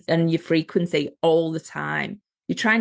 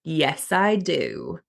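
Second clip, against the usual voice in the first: slow, owning it; 2 semitones lower, much slower than usual. Retold or imitated. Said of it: "the bit of me that's changed".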